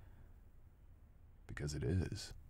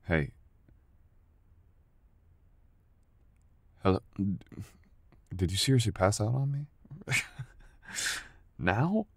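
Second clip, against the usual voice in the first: loud, higher calls to rouse a sleeper; calling to wake her; 5 semitones higher, 9 dB louder than usual. Acted. Partner calling out to wake sleeping girl, loud and higher. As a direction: raise the voice to wake someone passed out.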